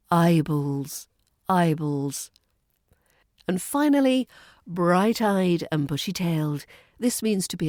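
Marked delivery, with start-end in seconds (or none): 0.1-2.3 "Eyeballs" with a clean break between eye and balls; clean syllable transition. Shown as a demonstration. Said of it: "clean transition between the syllables".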